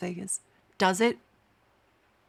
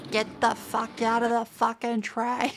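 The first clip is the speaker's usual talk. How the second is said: slow, mock-formal swearing announcement; lightly voiced crude conductor; mock Aussie announcer. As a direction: parody an outback train announcement. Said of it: "announce the place".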